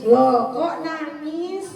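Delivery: slow, drawn-out gentle question; empathetic concern. Acted. Mother responds to child crying after school, slow empathetic concern. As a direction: ask with slow, stretched-out concern. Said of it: "bahasa tubuhnya kita respon".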